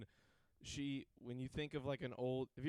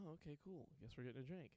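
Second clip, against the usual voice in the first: quiet shrug; 13 dB quieter, faster than usual. Retold or imitated. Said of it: "I was like".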